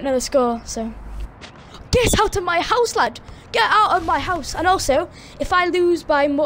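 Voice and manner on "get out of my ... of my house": mock yell. Mock rant at opponent's block.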